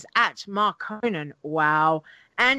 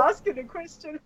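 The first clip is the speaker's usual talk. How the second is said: imitating a rising question tune; mock uptalk; 7 semitones higher, 4 dB quieter than usual. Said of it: "You sound like an ex-, you're like asking a question".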